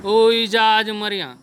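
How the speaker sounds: a loud terrified call to his mother in Pahari; frightened cry. Acted. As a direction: cry out in panic, sure of death. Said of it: "तो ज़ोर से डर के बोला". (घबराकर ज़ोर से चीखना)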